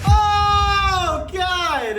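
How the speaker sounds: high, loud startled cry; shocked shout. Real, not acted. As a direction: gasp it out in shock. Hearing creepy voice.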